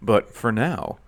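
mock-official radio announcer, lightly put on; deliberate, measured announcement with pauses. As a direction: play the radio host making an official statement. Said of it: "talk in my radio voice".

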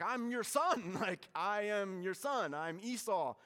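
loud, high protest, half-laughing; insistent son. Retold or imitated. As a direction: insist loudly that he's the son. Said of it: "And Esau's like".

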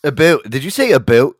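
mock Canadian accent. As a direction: tease with an exaggerated Canadian vowel in "about". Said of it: "when Canadians say".

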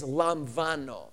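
"lambano" said slowly with a V for the B; slow, separated syllables on "lambano"; Greek pronunciation. Shown as a demonstration. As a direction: sound out "lambano" as lahm-VAH-no. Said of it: "the B is pronounced like a V".

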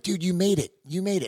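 high, eager cousin voice; excited cousin. Retold or imitated. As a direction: cheer like a hopeful relative. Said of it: "and they're like".

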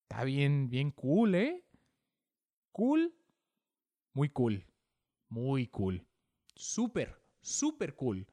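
put-on playful Spanish accent, bien cool; light Spanish accent repeating muy cool; Spanish speaker imitation. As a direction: toss off Spanish slang casually. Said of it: "people in Spanish go".

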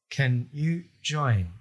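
slow, halting question; hesitant asking. Retold or imitated. Comedians asking their sober friend along, slow and hesitant. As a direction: imitate an awkward, careful invitation, word by word.

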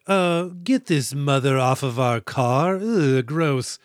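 snooty governor. Retold or imitated. Governor voiced disdaining the mother.

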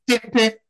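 two high notes mimicking a sting; imitated TV sound cue. Patient walking into the dentist's, imitated TV sting. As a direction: mimic the Law and Order sound. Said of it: "it sounds like Law and Order".

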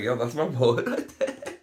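put-on slow, laughing hype for the kid; big up the kid while laughing; laughing proud. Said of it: "I'd be like".

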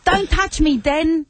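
high, pleading soap-star voice; soap opera character voice. Retold or imitated. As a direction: play the EastEnders scene. Acting out EastEnders scene.

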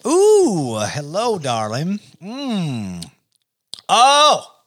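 high, breathy seductive purr to the glass; femme fatale. Pretend. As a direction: flirt with the whiskey like a vamp. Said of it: "You should hear me during sex".

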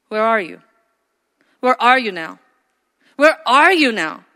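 growing from hushed to full voice; Holy Spirit asking. Pretend. The Holy Spirit presses the believer, building. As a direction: let the question swell each time. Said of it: "That's what the Holy Spirit asks".

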